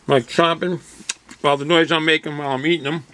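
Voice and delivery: chewing while talking; words round a mouthful; crunching chips. Real, not acted. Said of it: "Excuse my crunching".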